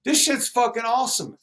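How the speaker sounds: high, excited fan voice; hyped fan. Retold or imitated. Fan praising the free CD, high and excited. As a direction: gush like a thrilled fan. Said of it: "He was like, like".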